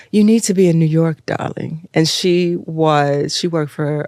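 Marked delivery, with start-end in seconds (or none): 0.1-1.9 quick British imitation, dropping on "darling"; British woman. British woman urging the model toward New York, imitated British accent. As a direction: advise her in a lightly put-on British accent. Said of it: "there was this British woman".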